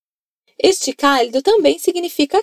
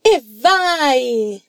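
lottery joy. Shown as a demonstration. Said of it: "Grita aí, vai".

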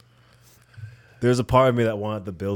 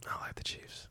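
whisper; 20 dB quieter than usual. Real, not acted. Whispered confession among rival fans.

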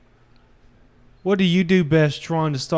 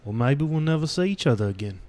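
a hammed-up British tough-guy accent, lightly done; shitty put-on British accent; 4 dB quieter, faster than usual. Man telling his partner old advice in a bad British accent. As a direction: fake a rough British accent for the bit. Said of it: "The last shitty accent I can pull out".

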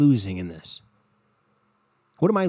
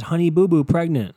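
loud mock headline read; 3 semitones higher, 5 dB louder than usual. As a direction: announce it as a found online headline. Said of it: "where it says".

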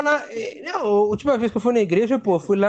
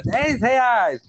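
mock vendor yell; 3 semitones higher than usual. Orange seller calling the price outside, mock yell. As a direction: call the price out from afar. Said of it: "Aí ele grita lá de fora".

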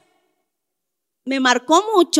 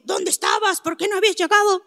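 dad's questions voiced higher, quick at the end; worried dad questioning; 6 semitones higher, faster than usual. Father demanding to know why his daughter came home late, worried. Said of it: "mi papá me dijo".

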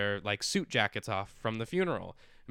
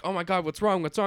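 higher and louder, hammed-up panic; mock alarm; 8 semitones higher, 5 dB louder, faster than usual. Family at dinner reacting to a choking uncle, mock alarm. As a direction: cry out as if he's choking.

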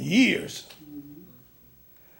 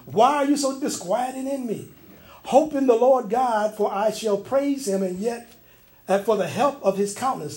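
scripture reading; 3 semitones higher than usual. Acted. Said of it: "Psalms forty-two, verse five says".

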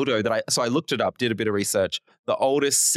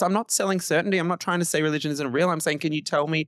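higher-pitched retold questioner, lightly voiced; imitating Bill Maher; 7 semitones higher, faster than usual. Host retells Bill Maher questioning believers, lightly higher voice. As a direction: lightly play the calm, insistent interviewer. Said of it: "he goes".

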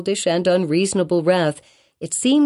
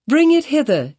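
commanding; 10 semitones higher, 4 dB louder than usual. A narrator's reading. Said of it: "said Hester".

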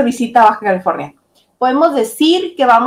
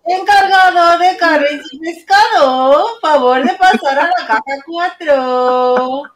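higher, slow loudspeaker page voice; supermarket PA announcer; 3 semitones higher, slower than usual. Shown as a demonstration. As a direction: call it out like a cashier on the mic. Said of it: "como la señorita del súper, la que vocea".

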